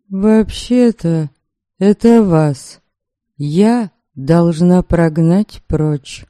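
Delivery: slow, cold and clipped out; icy voice. Acted. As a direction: rap out each word coldly. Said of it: "ледяным голосом отчеканила я".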